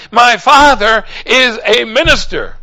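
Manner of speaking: tearful plea on his father's behalf; a choked-up plea; son pleading. Retold or imitated. Son pleading, crying heard.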